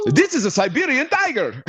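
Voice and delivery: high, hammed-up Russian voice; mock Russian accent. Showing off a tiger, high mock Russian accent. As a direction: announce it like a proud Russian guide.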